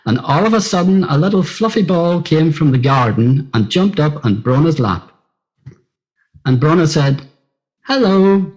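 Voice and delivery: put-on gentle read-aloud for children, a touch livelier; storybook reading. A narrator's reading. Friend reading Brona's story aloud, gently storytelling.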